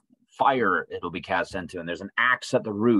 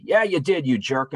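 higher, louder opening on an acted comeback; mock angry retort; 4 semitones higher, 4 dB louder than usual. Person answering someone's confession, mock angry retort. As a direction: throw back a mock indignant retort.

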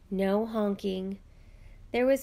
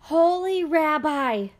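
high, loud, slow desperate cry; shrieking plea; 7 semitones higher, 7 dB louder than usual. A narrator's reading. Poor man bursting in on the rabbi, shrieking for help. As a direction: throw yourself at the rabbi's mercy. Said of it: "he shrieked".

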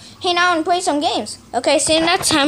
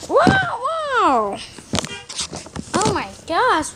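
sledding downhill; 3 semitones higher, slower than usual. Real, not acted. Sliding fast down the slope.

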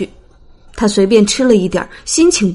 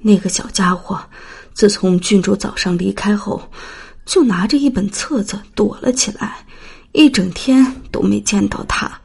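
softer, careful nanny; soft report; 6 dB quieter than usual. Acted. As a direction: report gently to the princess. (轻声回禀)

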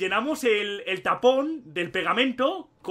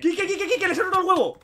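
high and loud, yelling the name in triumph; excited shout; 10 semitones higher, 4 dB louder, faster than usual. Real, not acted. Gamer shouting to his friend about a hit, excited shout.

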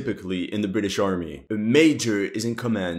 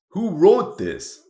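incredulous scoff; 8 semitones higher, slower than usual. Real, not acted. Mocks the game's writing.

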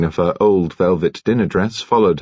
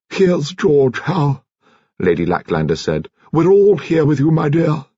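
put-on old wife reassuring her husband on his deathbed; tender wife; 9 semitones higher than usual. A narrator's reading. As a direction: comfort a dying husband. Wife at dying husband's bedside.

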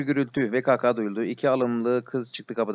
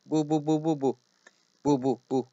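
flustered, higher-pitched rapid-fire repetition; mildly raised, urgent blurting; an excited outburst, pitched up; agitated outcry; 4 semitones higher than usual. Acted. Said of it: "Niye bağırıyorsunuz".

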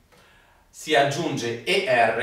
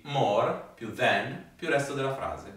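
repeat after me; 5 dB quieter than usual. Shown as a demonstration. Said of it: "Ripetete con me".

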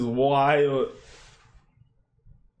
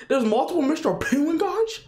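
laughing squeal; 13 semitones higher than usual. Real, not acted. Laughing disbelief at a twist.

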